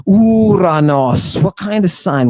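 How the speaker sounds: a hint of mock surprise, rising on What; lightly voiced puzzled listeners asking back; confused crowd. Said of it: "everybody's like".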